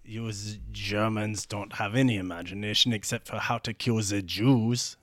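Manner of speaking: lightly put-on French accent; a touch of French accent. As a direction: jab back as the French sailor. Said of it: "the French guy is like".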